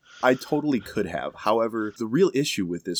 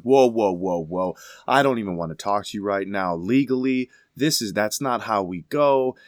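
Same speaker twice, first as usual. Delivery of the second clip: retold landlady, louder and flustered, waving him off; mock outraged landlady; 4 dB louder than usual. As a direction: play the landlady losing her cool, louder.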